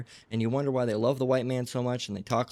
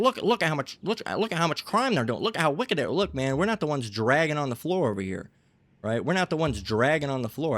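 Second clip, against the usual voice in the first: mock accuser; 3 semitones higher than usual. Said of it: "they're saying".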